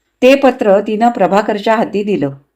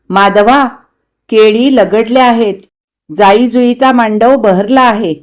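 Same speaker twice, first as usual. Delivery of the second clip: warm elder's letter read aloud, louder; आप्पांचं पत्र; 4 dB louder than usual. Acted. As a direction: read out the old uncle's letter in a fuller, louder voice. (आप्पांचं पत्र मोठ्याने वाचत)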